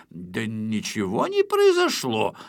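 defensive. Acted. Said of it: "начал оправдываться".

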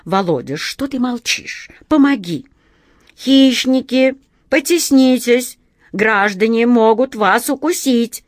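high, loud, flustered appeal; flustered alarm. A narrator's reading. Begging Володя for help with the crowd, high and flustered. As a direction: raise the voice in muddled panic. Panicked call for help, muddled warning.

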